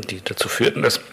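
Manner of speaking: words cut off by choking; choking on a drink. Real, not acted. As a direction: voice catching on a swallowed sip. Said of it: "ich habe mich gerade verschluckt". (verschluckt, stockende Stimme)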